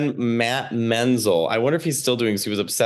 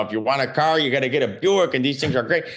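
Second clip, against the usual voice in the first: Chicago uncle; faster than usual. Acted. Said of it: "he was like".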